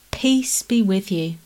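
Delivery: gentle peace. Acted. Jesus forgiving disciples who let him down, slow and gentle.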